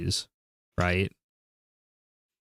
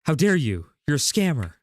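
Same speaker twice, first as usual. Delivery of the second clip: hammed-up indignant seller; seller's outrage retold as mock anger; 4 semitones higher than usual. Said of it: "he just goes".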